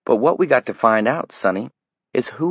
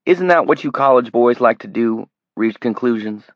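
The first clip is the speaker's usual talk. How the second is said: louder, higher mocking menace; sneering threat; 5 semitones higher, 6 dB louder than usual. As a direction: taunt the college boy. Greg taunting and threatening the kid.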